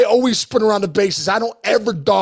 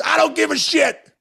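mock angry snap; 7 semitones higher than usual. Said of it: "And he goes".

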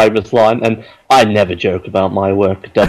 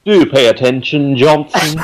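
disapproving teacher; 4 semitones higher than usual. Retold or imitated. Mimicking Q as teacher.

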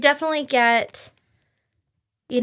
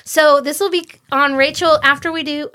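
louder and higher, carried away; excited yelling; 4 semitones higher, 5 dB louder than usual. Real, not acted. Podcaster announcing a release date, yelling without noticing. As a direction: raise your voice with the exciting news. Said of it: "Oh, wow, I'm yelling".

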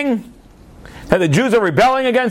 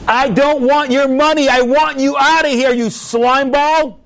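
higher-pitched acted rage, slowing hard on the insult; furious insult; 4 semitones higher than usual. Host refusing his enemy's money, furious. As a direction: play an outraged host spitting out contempt.

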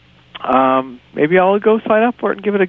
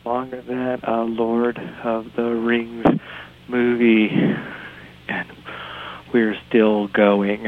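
slow, winded words between breaths; 2 semitones lower, slower than usual. Real, not acted. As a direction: still catching breath. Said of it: "I'm so out of breath".

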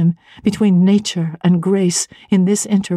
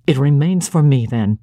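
a lower, measured voice for the cold clergyman; stern clergyman; 5 semitones lower than usual. Acted. Clergyman lecturing the young woman, low and stern. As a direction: lay out his reproach low and deliberate.

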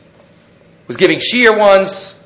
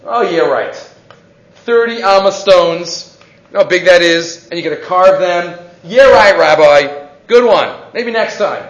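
mock scoffing. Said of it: "who scoffed at Rabbi Yochanan".

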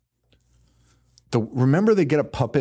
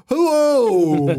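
loud, high sing-song hello; Toulon's creepy greeting; 13 semitones higher, 6 dB louder than usual. Retold or imitated. Creepy Toulon bursting in on the couple, loud high greeting. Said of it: "and then Toulon's like".

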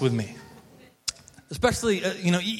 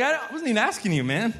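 higher, quick words through a laugh; amused mock protest, laughing; laughing disbelief; 5 semitones higher, faster than usual. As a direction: laugh it out, half offended. Retelling dad's blunt reply.

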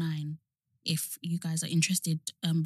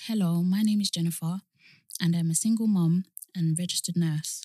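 reading aloud; 2 semitones lower than usual. Acted. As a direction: read the notice out solemnly. Reads out a window notice.

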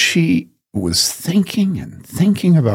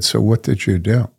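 very gently. Retold or imitated. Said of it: "Very gently".

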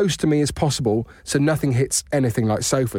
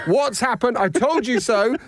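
retold wife shout; 9 semitones higher, slower than usual.

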